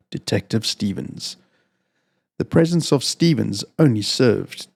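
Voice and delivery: measured, somber reading of a crime tale; calm, even storytelling voice with a dark undertone; story narration. A narrator's reading. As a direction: read it like a steady audiobook narrator. Reads chapter of dark story.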